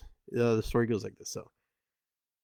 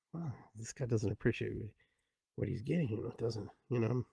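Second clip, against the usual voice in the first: neighbors grumbling; 10 dB quieter than usual. Retold or imitated. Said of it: "everybody's like".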